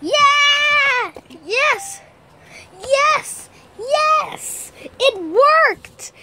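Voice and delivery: high, triumphant cheers; elated cheering. Acted. Player sees the fix finally work, triumphant cheering. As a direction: celebrate with drawn-out, rising whoops.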